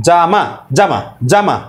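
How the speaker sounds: "জামা" run together, repeated quickly; quick repeated demo. Shown as a demonstration. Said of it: "যত দ্রুতই উচ্চারণ করেন না কেন".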